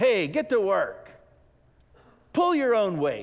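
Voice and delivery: sharp harsh snap. Speaker acting out how people snap at the idle, mock-harsh snapping tone. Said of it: "kind of in that harsh tone".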